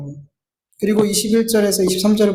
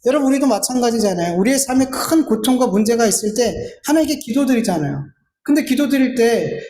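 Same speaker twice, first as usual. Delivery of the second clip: ordinary delivery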